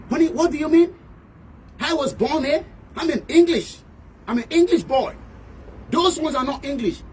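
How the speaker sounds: high, put-on English voice; imitating an English man. Englishman correcting him that he is English, high put-on English voice. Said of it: "ó sọ̀rọ̀ gbá mi létí".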